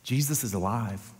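low, very soft and tender; hushed reassurance. Acted. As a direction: drop to a gentle near-whisper, with long pauses. Tender message spoken to Peter.

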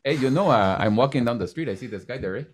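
lightly put-on French Canadian English; French Canadian accent. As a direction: imitate a French Canadian telling a casual street story. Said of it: "French Canadians, when they speak English".

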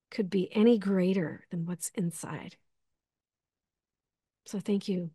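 soft whispered reassurance. Real, not acted. Sister whispering a heartfelt affirmation to the audience. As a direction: breathe the words out gently.

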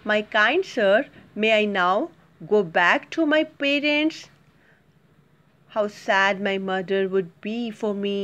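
put-on gentle pleading boy; the boy asks the potter to go home; humble request. Shown as a demonstration. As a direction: ask permission humbly. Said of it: "how he requested, see".

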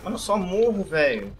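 high, loud frustrated complaint; frustrated outburst. Real, not acted. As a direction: complain loudly about dying again. Keeps dying in game. (desabafo frustrado)

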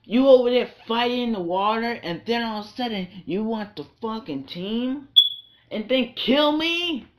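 outraged gamer questioning; indignant disbelief. Real, not acted. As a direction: protest the unfairness, rising high at the end. Complains about being teamed on.

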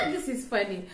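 real laugh into the words. Real, not acted. Vlogger amused by the man's arrest, laughing. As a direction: let a laugh out before speaking. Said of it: "Sorry I'm laughing".

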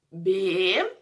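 "Beterraba" in four separate syllables, long gaps between. Shown as a demonstration. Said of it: "começa com a sílaba".

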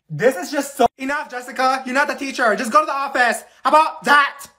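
furious loud scolding; angry telling-off. Acted. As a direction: put her in her place. Telling off Jessica.

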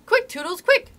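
high, loud cry rising on the last word; urgent scream. A narrator's reading. Tink hurrying Toodles to shoot, urgent scream. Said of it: "she screamed".

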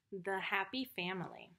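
hushed title whisper. Acted. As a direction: breathe the title softly.

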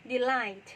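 delight said slowly and clearly as di-light; careful model word. Shown as a demonstration. Teacher modelling delight for her students. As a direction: spell out delight crisply, loud on the first beat. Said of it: "คำนี้จะอ่านว่า delight".

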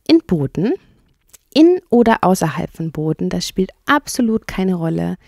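lightly lifted, lively storybook rat; enthusiastic water rat. Acted. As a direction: rhapsodise about boating as the rat. (schwärmende Wasserratte)

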